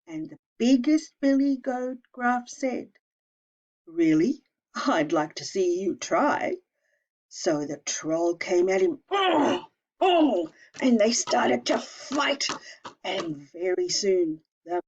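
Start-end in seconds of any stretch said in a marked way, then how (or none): 3.9-6.6 bold, daring challenge; defiant big goat. Acted. Biggest goat daring the troll, mildly defiant. 9.1-10.5 high, loud effort grunts; fighting grunts. Acted. Troll and goat grunting as they fight.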